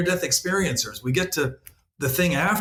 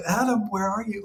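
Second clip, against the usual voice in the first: put-on raised, gently calling voice of God searching for a child; 5 semitones higher than usual. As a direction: call out like a playful father in hide and seek. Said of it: "Like, literally".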